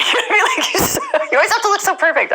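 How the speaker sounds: high, laughing retelling. Real, not acted. Repeating the counselor's words to the host, laughing. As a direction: chuckle through it, amused.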